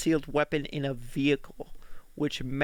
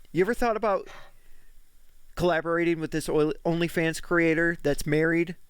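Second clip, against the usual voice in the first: mocking; faster than usual. Mocking the host's question.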